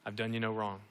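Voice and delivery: soft, quiet voice of Jesus; a hint of a patient, gentle Lord. Jesus gently answering the complaining hard worker, softly. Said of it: "Jesus says".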